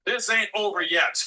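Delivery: defiant shout at town hall. Real, not acted. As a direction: shout over them, refusing to stop. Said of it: "I got a very loud voice".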